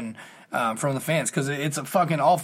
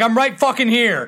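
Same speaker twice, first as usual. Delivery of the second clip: higher-pitched, heated comeback; retold angry challenge; 7 semitones higher, 4 dB louder than usual. Son confronting a rude fan, retold angry challenge. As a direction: square up in a retold argument. Retold shouting match at stadium.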